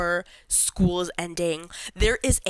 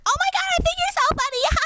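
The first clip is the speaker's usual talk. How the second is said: high, gushing fake-flirty voice; fake flirty laugh; 4 dB louder, faster than usual.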